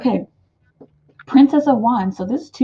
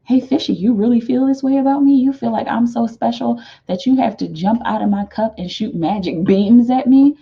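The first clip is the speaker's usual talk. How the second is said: flattered card lady; 5 semitones higher than usual. Pretend. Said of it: "She's like".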